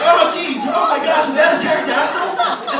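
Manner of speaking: high, loud comic horror; hammed-up shriek of dismay; horrified shock. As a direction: cry out in alarm at an awful sight. Horrified reaction to the face.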